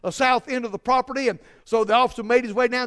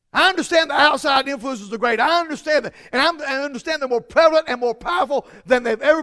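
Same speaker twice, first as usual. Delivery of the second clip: rising preaching; 2 semitones higher than usual. Acted. Preaching climax.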